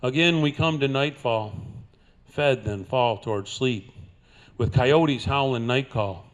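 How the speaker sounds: cowboy poem recitation; cowboy twang. Acted. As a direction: recite it like a trail-worn cowboy poet.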